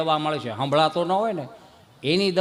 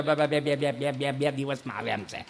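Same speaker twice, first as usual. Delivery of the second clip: nervous stutter, trailing quieter; scared son stammering to his father; 5 semitones lower, 7 dB quieter than usual. Acted. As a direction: stammer out the answer in fear. ઓલો હેપતાઈ ગયો.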